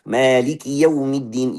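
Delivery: "yau" in "yaumiddin" rounded early towards "yo"; slow recital, rushing into the w of "yau"; unclear fathah. Shown as a demonstration. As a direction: blur the a of "yaumiddin" into the w. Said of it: "maka fathahnya tidak jelas".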